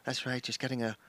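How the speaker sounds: a gruff Northern Irish farmer; lightly done Northern Irish accent. Acted. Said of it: "That was Northern Irish".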